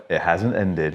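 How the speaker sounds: husband muttering to his wife on the plane, quiet deadpan; deadpan aside. Retold or imitated. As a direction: drop it low and dry to your wife. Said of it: "like that".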